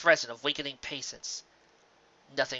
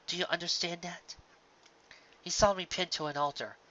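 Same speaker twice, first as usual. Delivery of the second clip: soft wise princess; 3 semitones higher, 6 dB quieter than usual. Acted. Celestia speaking gently.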